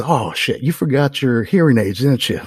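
imitated irritated boss; mock cursing out. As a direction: curse at a forgetful colleague. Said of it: "starts cursing at the project manager".

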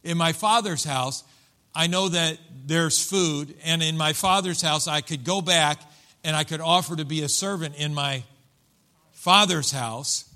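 "father's" punched, with a pause before the last one; stress on FATHER'S. Acted. Broke son plans his return home, stressing "father's". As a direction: lean deliberately on each "father's". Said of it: "listen how he says it".

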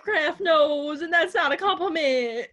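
words squeezed out through giggles; laughing while talking. Real, not acted. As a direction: talk while cracking up. Laughing while talking about blobfish.

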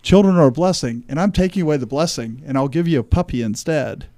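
voicing God. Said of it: "When God says".

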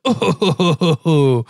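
high wavering "oh" in mimicry; mock moan of release; imitated relieved moan. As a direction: mimic a patient's moan after a back crack. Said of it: "loud, and, like, she goes".

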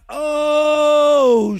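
normal talking voice

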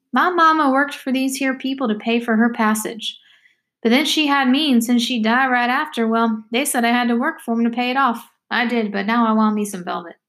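lightly voiced girl with a lilting pitch; a touch of backwoods girl telling her story; talkative country girl, matter-of-fact.

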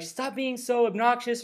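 high, drawn-out imitation of yelling; mock yelling. Coffee shop worker yelling at customers, high mock yell. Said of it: "she started yelling at us".

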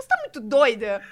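put-on laughing while quoting the little girl; imitating toddler, laughing. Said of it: "ela fala". (imitando a filha pequena, rindo)

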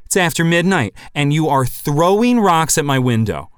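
mock hick shouting from the porch; hammed-up hick holler. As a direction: play a riled-up old country neighbour calling out. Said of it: "and I said".

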